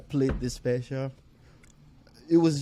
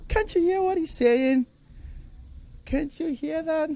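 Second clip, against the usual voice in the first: much higher, pleading disbelief; incredulous plea. Retold or imitated. To his girlfriend who isn't laughing, a high incredulous plea. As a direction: beg her to hear the joke.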